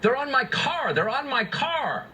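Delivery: high-pitched mock-terrified plea; imitating terrified caller. Host quoting a mother's emergency call, imitating terror. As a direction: quote the frightened caller, pitched well up, dragging the last line.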